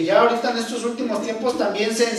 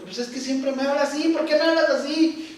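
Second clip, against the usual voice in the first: mock complaint rising to higher pitch; whiny victim voice; 5 semitones higher than usual. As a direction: whine like you're the wronged one. (queja de víctima, más aguda)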